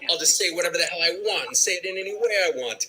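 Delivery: a fast, brash take on Pacino; Al Pacino big years. Retold or imitated. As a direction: bulldoze through it like late Pacino. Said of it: "he was, like, big and".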